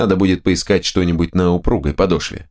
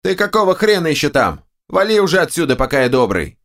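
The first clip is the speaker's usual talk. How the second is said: two bickering giant voices; 9 semitones higher than usual. A narrator's reading. Ogre orders hero away.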